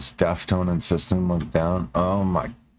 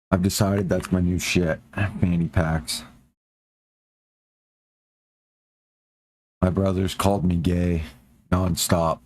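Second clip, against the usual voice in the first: rough, worn-out hoarse voice. Real, not acted. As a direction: voice gone from screaming at a concert. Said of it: "my voice is gone 'cause of the concert".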